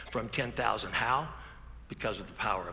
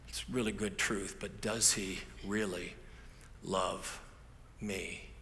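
doubtful question; 4 semitones lower, 6 dB quieter, slower than usual. Acted. Voicing a listener's doubt.

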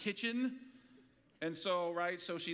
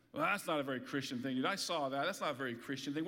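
lower, faster mock tut-tut; mock disapproving scold; 5 semitones lower, faster than usual. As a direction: mimic a prim scold, low and quick. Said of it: "You've probably heard someone say".

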